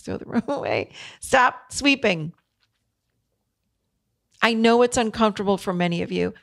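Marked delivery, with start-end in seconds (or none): 0.0-0.9 chuckling through a joke title; laughing podcast title. Real, not acted. Host jokes about naming her podcast, laughing. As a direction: laugh as you name the show. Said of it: "Maybe I should call the podcast".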